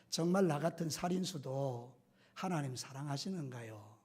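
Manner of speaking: tearful plea. Retold or imitated. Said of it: "막 울더라는 거예요".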